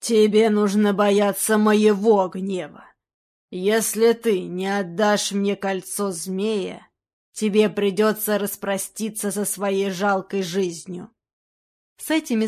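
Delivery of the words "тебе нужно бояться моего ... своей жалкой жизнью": slow, heavy threat; slow menace. Acted. Blackbeard threatening the boy with death, slow menace. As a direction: weigh each word as a death threat.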